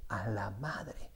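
low, slow, very soft stunned mumble; frozen child repeating it under his breath; mock stunned mumble. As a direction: say it dazed and nearly silent. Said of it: "Y repite".

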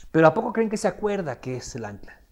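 ordinary delivery

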